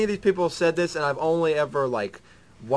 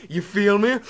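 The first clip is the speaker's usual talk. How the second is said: higher mock British question; amused, lightly British check-in; British Parliament accent; 5 semitones higher, 3 dB louder than usual. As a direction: slang in a put-on British accent. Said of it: "brought to you by members of Parliament".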